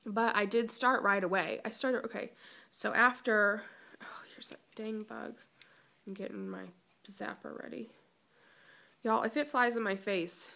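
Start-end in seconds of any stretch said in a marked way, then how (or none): 4.0-7.9 hushed, softer aside about the bug; whisper. Real, not acted. Spotting a bug while filming, a soft whispered aside. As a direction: whisper it so the bug won't notice. A bug flies near mid-vlog.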